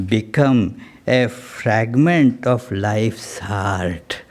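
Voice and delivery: measured, expressive reading of a sacred poem; poetry recitation. Acted. Speaker reads a poem on love to seekers, measured recitation.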